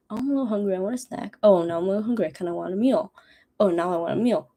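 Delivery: lightly voiced, casual growing hunger; a hint of a polite stomach asking for food; lightly voiced easygoing stomach; mild polite hunger voice. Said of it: "I'd rather go, like".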